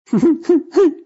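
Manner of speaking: high loud hysterical cackle; hysterical laugh. A narrator's reading. Matador laughing hysterically under the saw. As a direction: burst into wild laughter. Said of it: "издавал истерический смех".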